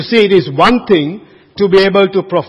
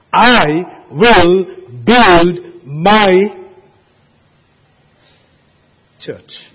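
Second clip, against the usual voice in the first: I, WILL, BUILD, MY each loud and drawn out, then a long pause and a hushed "church"; solemn proclamation; 4 dB louder, much slower than usual. Acted. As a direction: proclaim word by word, then drop to near silence on "church". Proclaims Jesus' words from the text.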